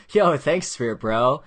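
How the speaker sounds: mock-grateful bro shout; playful shout-out. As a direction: toss out a hearty thanks to an imaginary bro. Thanking an imaginary spirit bro.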